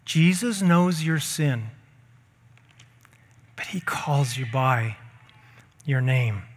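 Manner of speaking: slowed, half-whispered close; soft hush. Acted. Preacher hushing the congregation's promise. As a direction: hush it so they lean in. Preacher repeats line softly.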